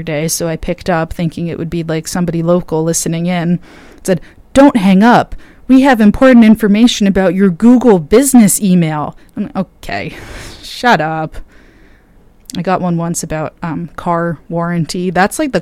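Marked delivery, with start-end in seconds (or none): 4.5-9.2 loud, pushy automated sales pitch; robocall voice. Retold or imitated. Imitating a robocall message. 9.6-11.4 dismissive. Retold or imitated. Dismissing the spam call.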